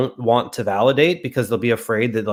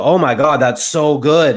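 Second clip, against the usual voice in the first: excited client; 4 semitones higher, 6 dB louder, slower than usual. Retold or imitated. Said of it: "And they'll go".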